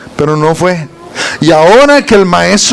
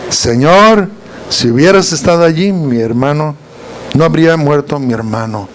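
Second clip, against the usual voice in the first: humble plea; 3 semitones lower than usual. Retold or imitated. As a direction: plead as if kneeling at his feet. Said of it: "pero fue diferente la actitud". (súplica humilde y suave, postrada)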